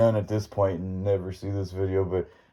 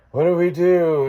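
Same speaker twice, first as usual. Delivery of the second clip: high, imitated panic; hammed-up frightened question; mock freaking out; 8 semitones higher, 4 dB louder than usual. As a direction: act out kids in a panic. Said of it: "they're all freaking out".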